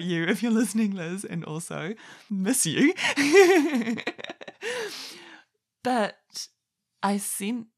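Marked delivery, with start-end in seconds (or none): 3.0-5.4 a burst of high, loud laughter. Real, not acted. Laughing after teasing her old colleague Liz. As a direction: let out a big bright laugh.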